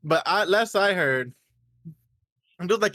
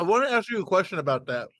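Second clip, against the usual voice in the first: talking through a mouthful of food; mouth full; faster than usual. Real, not acted. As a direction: speak around a bite of food. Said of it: "sorry to speak with my mouth full".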